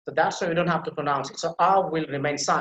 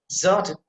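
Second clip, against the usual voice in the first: "zert" stretched slowly and given weight; emphasized second syllable; 2 semitones higher, 4 dB louder than usual. Shown as a demonstration. Teacher isolating the verb's stressed syllable, emphatic. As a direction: lean hard on "zert" alone. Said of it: "that will be emphasized".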